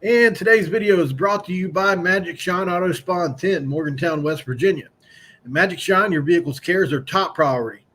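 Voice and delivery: bright sponsor read with a lift. Acted. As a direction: pitch the car spa like a commercial. Reads sponsor ad.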